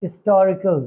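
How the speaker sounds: historical as "istorical", H dropped; old silent-H pronunciation. Shown as a demonstration. Teacher showing the earlier way: "istorical" without H. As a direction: begin इस्टोरिकल on the vowel. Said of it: "पहले हम इसको pronounce करते थे".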